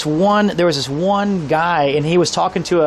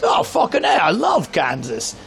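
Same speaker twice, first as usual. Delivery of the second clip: imitated drunk delight. Drunk local hears Kansas, mock excited outburst. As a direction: mimic a drunk suddenly overjoyed. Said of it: "you're drunk now".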